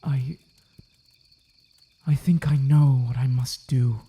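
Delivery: breathy whisper of a man deciding; whispered resolve. Acted. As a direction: whisper it to yourself, grim and certain. Resolving alone after uncle's charge.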